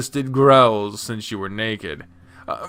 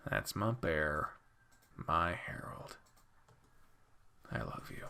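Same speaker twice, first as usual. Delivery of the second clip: soft sleepy whisper; 7 semitones lower, 18 dB quieter than usual. Acted. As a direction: barely breathe the words. Bear's sleepy whisper to listener.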